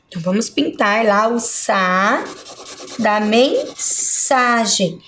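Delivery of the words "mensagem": "mensagem" broken after "men", leaning on "sa"; stress on SA. Shown as a demonstration. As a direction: slowly split "mensagem" to show the strong "sa". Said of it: "que é a sílaba mais forte". ("mensagem" silabado, com ênfase no "sa")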